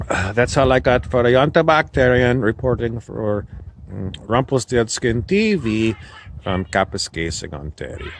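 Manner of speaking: lightly put-on French Canadian accent; a hint of French Canadian, badly faked. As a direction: play a comic local with an unconvincing French Canadian accent. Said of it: "French Canadian accent, it was terrible. It didn't sound French Canadian".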